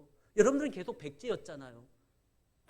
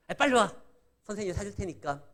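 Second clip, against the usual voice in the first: teacher insisting; 5 dB louder, faster than usual. Retold or imitated. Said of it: "한 세 번 말해야지만".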